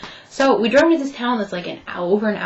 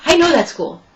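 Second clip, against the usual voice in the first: mock excited interviewer; 8 semitones higher, 6 dB louder than usual. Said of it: "but he's like".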